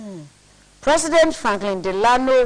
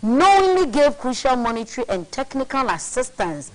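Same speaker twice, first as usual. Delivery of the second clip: measured read from a printed text; reading aloud. Real, not acted. Co-host reads a conspiracy book to his partner, read aloud. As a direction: read out a weighty passage deliberately.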